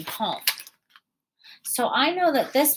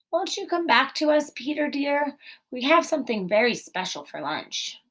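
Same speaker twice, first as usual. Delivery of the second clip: calling out; 7 semitones higher than usual. Acted. Mother calling Peter back from the window. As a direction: coax him in from the window. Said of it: "came to the window and called".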